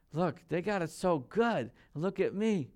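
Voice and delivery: swooping self-pitying mock whine; mock crying complaint. Preacher imitates believers envying the prosperous, mock crying complaint. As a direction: act out a put-on, tearful grumble. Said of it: "We start crying".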